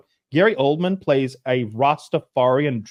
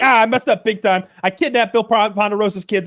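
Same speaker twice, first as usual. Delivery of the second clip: mock panic; 9 semitones higher, 4 dB louder than usual. Character quote retold, laughing.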